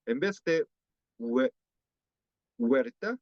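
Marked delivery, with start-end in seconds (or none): 1.2-3.2 huerta pitched higher with the hue drawn out; exaggerated learner huerta; stressed learner version. Shown as a demonstration. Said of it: "se pronuncia como".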